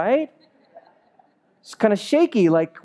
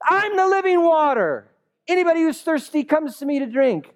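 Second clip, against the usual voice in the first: bold proclamation; 10 semitones higher than usual. Acted. Jesus stands up and proclaims.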